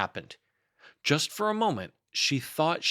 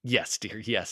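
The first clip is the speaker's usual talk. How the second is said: soothing. Acted. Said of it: "said Kanga soothingly".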